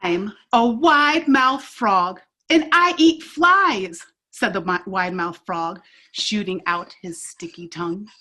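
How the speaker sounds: lively read-aloud with paced character lines; storybook read-aloud. Acted. Teacher reading a picture book to kids, animated. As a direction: tell the story to a circle of kids.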